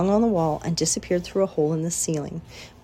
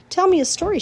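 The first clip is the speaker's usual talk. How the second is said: high, pleading little-pig voice; a sleepy piglet begging; pig's plea; 12 semitones higher, 4 dB louder, faster than usual. A narrator's reading. Wilbur begs sleepily.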